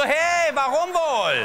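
put-on high, very slow sulky kid, laughing; high child voice. The lonely boy answers the fat kid, high, slow and sulky. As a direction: drag it out like a gloomy little boy. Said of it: "Ich so".

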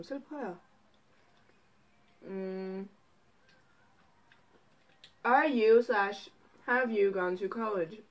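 talking between bites; chewing while talking. Real, not acted. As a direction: mouth full of chicken. Seen 0: bites and chews fried chicken piece at mouth from 0.6s.

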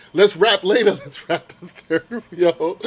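mock hoarse voice, laughing; imitated lost voice. Vlogger mimics the hoarse rapper asking to rap later, mock hoarse. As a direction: imitate a rapper whose voice is gone. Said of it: "His whole voice was like hoarse".

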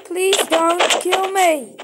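loud, slow desperate plea; pleading. Real, not acted. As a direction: beg loudly for mercy. Friends keep killing him.

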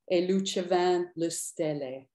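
E lucevano le stelle spoken in Italian; Italian words. Retold or imitated. Poet quotes the Tosca aria Paolo sang, spoken Italian. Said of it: "two lines of Italian in this poem".

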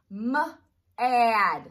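"S-" held, then a loud "add"; sound blending demo. Shown as a demonstration.

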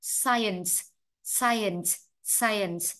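"science" with a distinct final "ns" hiss; clear final sound. Shown as a demonstration. Teacher telling students to sound the ending, "science" with clear final s. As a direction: finish "science" fully on its last s. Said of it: "phải đọc rõ âm đuôi".

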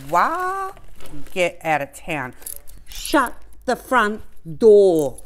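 surprised. Real, not acted. Surprised by unboxing.

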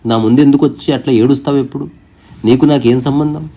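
a touch of a stern rebuke; angrily. Retold or imitated. The sage scolds the weeping devotee, in mild mock anger. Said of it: "కోపంతో ఇట్లా అన్నాడంట".

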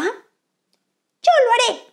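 high, very slow snail offer. Acted. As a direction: drawl it out like a snail. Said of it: "se ofreció uno de los caracoles".

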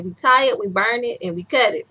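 lightly imitated Asian doctor's accent; mild, playful Asian-accent quote. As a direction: recite it with a touch of Asian accent. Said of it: "so that accent".

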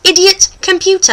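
"Idiot, computer" as two separate model words; British demo. Shown as a demonstration. Host reviews the two words, British "Idiot, computer". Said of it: "going over them one more time".

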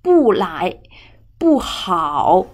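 不 as a strong falling tone; powerful fall on 不; fourth-tone 不. Shown as a demonstration. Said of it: "has powerful tone".

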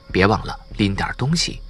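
ordinary delivery

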